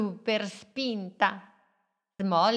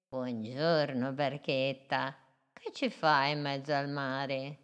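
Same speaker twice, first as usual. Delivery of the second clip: a bit lower, gentle turtle; 4 semitones lower than usual. Acted. Turtle greets the little boat, lightly lower voice.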